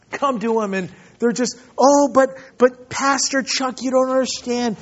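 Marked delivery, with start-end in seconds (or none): 1.8-4.7 higher-pitched imitation of fretting pastors; mock stressed complaining. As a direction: plead your troubles, mildly hammed-up. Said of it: "the young guy's just stressed and upset".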